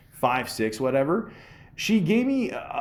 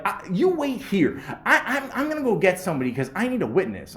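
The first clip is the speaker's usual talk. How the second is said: 1 mock boss laughing; 8 semitones higher than usual.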